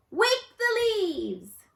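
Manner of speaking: high, loud and slow command; stronger voice. A narrator's reading. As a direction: call it out with new courage. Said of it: "Wadney's voice was stronger".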